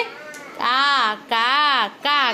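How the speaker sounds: drawn-out imitated crow caws; crow cawing. Shown as a demonstration. Teacher showing children how a crow speaks, imitated cawing. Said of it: "કેવું બોલે?".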